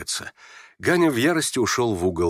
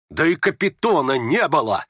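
raised, exasperated denial; angry; 5 semitones higher than usual. Acted. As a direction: snap back in rising irritation. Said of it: "совсем уж разозлился Ганя". (раздражённо, зло)

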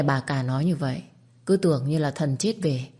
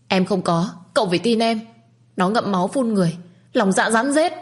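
higher, louder tearful protest, no real crying; mock tearful sob; 5 semitones higher, 3 dB louder than usual. A narrator's reading. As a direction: plead through pretend tears, voice climbing. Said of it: "khóc tức tưởi". (giọng nức nở giả, cao dần)

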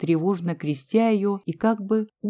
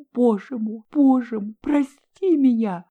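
sobbing plea; 5 semitones higher than usual. A narrator's reading. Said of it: "рыдая".

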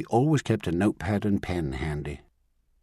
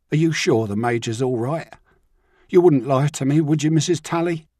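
put-on higher, louder teenage Ryan, wary and pleading; young lad on the run, needing reassurance; frightened boy asking to be told the truth; anxious runaway boy; 6 semitones higher, 4 dB louder than usual. Ryan telling where he slept.

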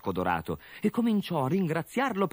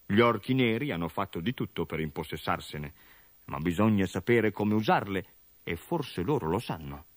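a hint of a grave old healer, lower; lightly voiced old doctor; 3 semitones lower than usual. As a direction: sober doctor explaining. Village doctor explains gravely.

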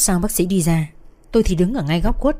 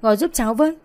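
tearful plea; 4 semitones higher, faster than usual. Acted. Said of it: "khóc um lên".

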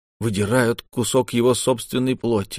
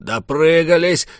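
high, loud, slow furious shout; furious yell; 7 semitones higher, 4 dB louder than usual. A narrator's reading. Tokhu yelling at the others in fury. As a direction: yell it in rage. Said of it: "заорал Тоху в ярости".

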